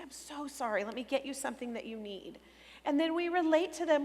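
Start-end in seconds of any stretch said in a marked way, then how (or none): 0.0-2.4 a touch of softer comforting; soothing parent. Shown as a demonstration. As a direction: gently console the child. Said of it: "We say".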